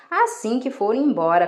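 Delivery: usual speaking voice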